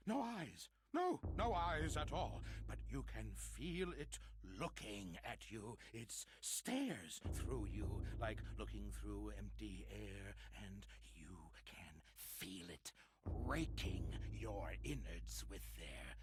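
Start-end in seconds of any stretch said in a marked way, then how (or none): 0.1-2.4 loud, high desperate insistence; frantic insistence. Acted. 9.9-12.9 whisper. Acted. Whispered dread.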